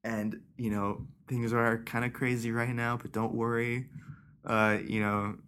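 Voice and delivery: soft, slow, reassuring teacher voice; a teacher breaking bad news gently to fourth graders, softly; teacher calming kids. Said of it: "she was like".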